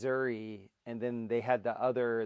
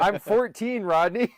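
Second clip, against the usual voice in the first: put-on protesting teen; 9 semitones higher, 11 dB louder than usual. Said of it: "Rodney would have been like".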